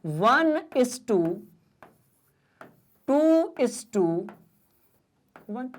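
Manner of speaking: each part drawn out with long pauses; measured, deliberate dictation pace; slow dictation. Shown as a demonstration. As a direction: spell the ratio out slowly for notes. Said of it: "dictating the ratio slowly".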